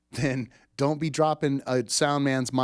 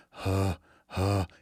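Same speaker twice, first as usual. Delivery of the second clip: breathy huh; 4 semitones lower than usual. Shown as a demonstration. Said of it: "It's that sound in a person's breath".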